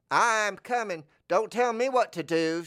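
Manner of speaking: lightly voiced grumbling sidekick; Larry. A hint of Larry snapping back at Moe. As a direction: talk back loud and whiny. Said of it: "says Larry".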